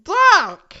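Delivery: sudden high shouted "Duck!"; yelled warning. Acted. Reimu yelling a warning to Sanae, loud shout. Fanfic reading, character yells.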